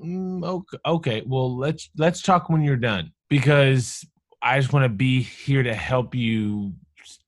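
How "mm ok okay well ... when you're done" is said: mock awkward comforter. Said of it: "I would be like".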